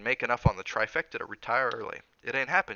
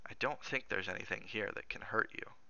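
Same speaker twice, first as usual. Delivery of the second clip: softer, private thought; inward echo; 6 dB quieter than usual. Acted. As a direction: say it quietly to yourself. Cook echoes his words in private thought.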